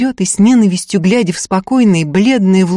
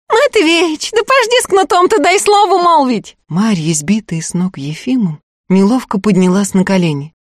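pleading woman; 10 semitones higher than usual. Acted. Marya to Prokop, very high pleading cry. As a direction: beg him to hold the whip.

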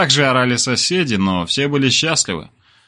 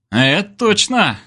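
mumbled; 9 semitones higher, slower than usual. A narrator's reading. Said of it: "невнятно ответил балалай".

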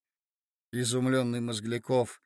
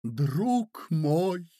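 gentle; 3 semitones higher than usual. Acted. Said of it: "отвечала Марья Александровна".

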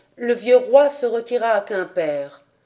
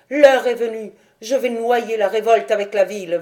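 commanding; 4 dB louder than usual. Acted. Dahu commands her page.

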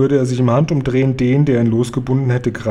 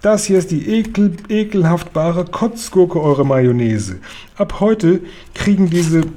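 a much higher, slowed giant voice full of disgust; excited giant voice; 5 semitones higher than usual. Acted. Guri tells the queen about the snozzcumber, a high excited giant voice. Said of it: "schrie er".

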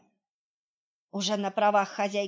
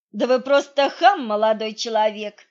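mock-outraged lady; indignant surprise; 9 dB louder than usual. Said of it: "удивилась я".

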